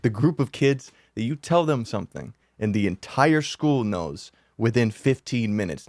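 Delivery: usual speaking voice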